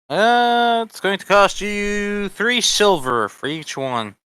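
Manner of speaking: shopkeeper voice. Acted. Shopkeeper quoting a price.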